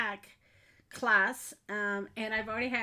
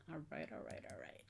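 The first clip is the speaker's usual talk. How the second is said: muttered to self; 6 semitones lower, 15 dB quieter, faster than usual. Real, not acted. Muttering to herself setting up.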